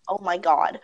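something caught in the throat; choking. Real, not acted. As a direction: choke the words out a little. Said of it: "now I have something stuck in my throat".

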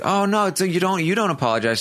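high, fast, flustered denial; mock flustered protest. Podcaster imitating Christmas brushing off an apology, high and rushed. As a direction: squeak out a hurried apology-refusal.

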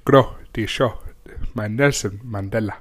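mock South African impression; South African accent. Trying out accents for co-host, South African accent. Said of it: "That's quite good, actually".

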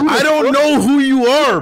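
high, loud and slow; incredulous shout. Real, not acted. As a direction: shout it in disbelief. Outraged at caller.

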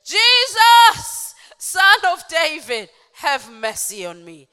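high, booming shout easing off at the end; loud cry. Acted. Blind man begging Jesus for mercy, loud crying out. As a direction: cry out at the top of your voice, then fall. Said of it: "he cried out with a loud voice".

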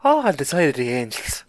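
lightly hammed-up Irish accent; mock Irish accent. Co-host stepping in to mimic the character, mock Irish accent. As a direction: imitate the show's bad Irish accent. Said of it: "that's exactly how he said it".

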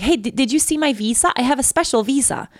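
high, chirpy friend's voice; eager friend. Retold or imitated. Maya proudly showing the officer her visa, chirpy.

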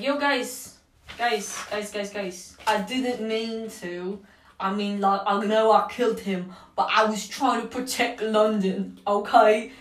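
botched attempt at a British accent; wandering, unplaceable accent; muddled mock accent. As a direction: plead in a badly faked British accent. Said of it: "What the fuck is this accent?".

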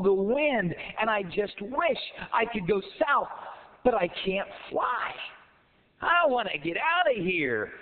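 a hint of a frustrated, wishing frog; lightly voiced wistful frog. Frog stuck in a cold pond, mildly plaintive. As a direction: lament it, leaning on the miserable words.

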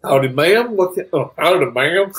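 folksy barkeep greeting. Acted. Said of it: "Tobin gives a little wave and goes".

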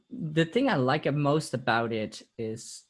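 slight accidental Italian accent; words slipping into an Italian lilt. Real, not acted. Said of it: "did I go with a weird Italian accent just now?".

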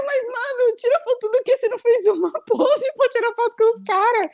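high, exasperated comeback. Retold or imitated. She fires back at her friend, high and exasperated. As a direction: push back, incredulous. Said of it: "Eu falei".

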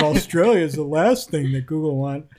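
a hammed-up Australian accent read through a laugh; a jokey Australian accent quoting a press release. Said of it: "Is that your Australian accent?".

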